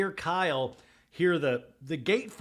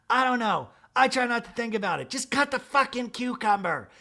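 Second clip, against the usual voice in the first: exasperated; 7 semitones higher, 3 dB louder than usual. Retold or imitated. Kyle snapping at Portia.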